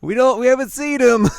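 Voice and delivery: very high, loud squeaky voice; squeaky cartoon voice. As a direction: shriek it in a tiny cartoon voice. Miroku voiced in recap.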